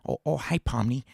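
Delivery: put-on lightly done dotty old king; Kinger voice. Shown as a demonstration. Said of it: "Kinger voice".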